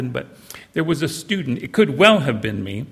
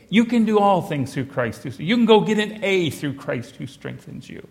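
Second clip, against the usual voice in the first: higher, breezy pep-talk voice; glib bromide; 5 semitones higher than usual. Retold or imitated. Mocking the friend reassuring an unprepared student, higher and breezy. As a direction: toss off the verse as easy comfort. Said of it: "putting it as, as a bromide".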